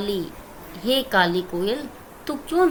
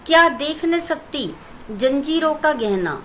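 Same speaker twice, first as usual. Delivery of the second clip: poem recitation. Shown as a demonstration. Teacher recites poem stanza.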